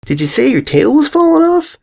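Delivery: high cutting-in yell across the room. A narrator's reading. Apple Bloom cutting in from across class, alarmed yell. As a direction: shout the question in disbelief. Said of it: "cut in with a yell".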